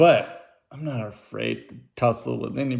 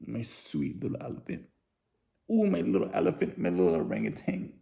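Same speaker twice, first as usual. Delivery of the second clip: silly pet names; 7 dB quieter than usual. Pretend. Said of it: "if you call your wife".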